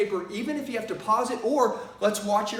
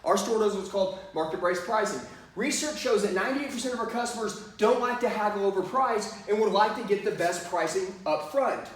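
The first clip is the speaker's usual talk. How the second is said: steady, believable pitch voice; sales script. Shown as a demonstration. Salesman pitching market pricing to a customer. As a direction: deliver it like a memorized track. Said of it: "You're gonna say it just like this".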